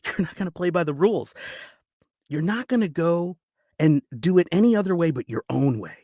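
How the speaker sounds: acted dramatic speech with heavy pauses; audition monologue. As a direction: urge them on bitterly, building in pitch and force.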